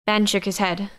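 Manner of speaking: ordinary delivery, nothing marked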